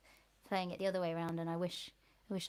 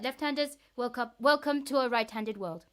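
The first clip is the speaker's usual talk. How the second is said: put-on higher-pitched teacher in a muddled Irish-French accent; weird hybrid Irish-French accent; 4 semitones higher than usual. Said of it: "some kind of weird hybrid accent".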